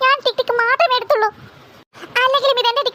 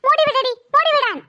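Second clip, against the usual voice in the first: pained plea; 3 semitones higher than usual. Acted. Sister begs her sister to release her hair, pained and slow. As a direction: beg her to let go of your hair.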